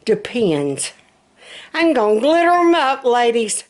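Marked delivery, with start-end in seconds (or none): 1.7-3.6 excited. Real, not acted. Joking about decorating pull-ups.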